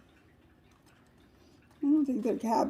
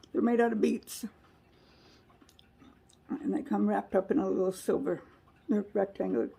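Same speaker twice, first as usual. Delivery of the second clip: talking with a mouth full; chewing while talking. Real, not acted. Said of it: "I apologize for talking with my mouth full".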